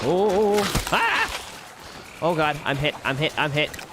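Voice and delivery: startled cry, then gasping it out; panicked yelp. Real, not acted. Getting hit in game.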